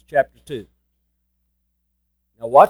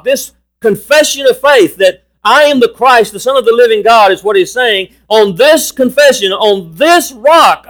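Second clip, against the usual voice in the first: raised, driving scripture proclamation; emphatic preaching; 5 semitones higher, 3 dB louder than usual. Real, not acted. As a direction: hammer the repeated key phrases. Preaches through quoted scripture.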